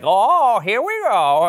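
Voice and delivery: high, mock Sandler whine; Adam Sandler accent. Host mocking hometown kids' Sandler impression, high whine. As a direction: imitate a kid doing Sandler. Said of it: "every kid was like".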